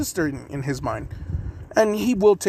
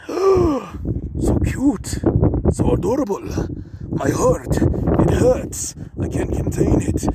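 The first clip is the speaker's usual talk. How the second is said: gushing over cuteness; 7 semitones higher, slower than usual. Acted. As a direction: melt over something adorable.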